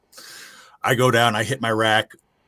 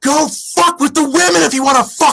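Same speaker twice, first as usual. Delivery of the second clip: furious yell, much higher and louder; retold scream; 7 dB louder than usual. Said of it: "and I scream at him".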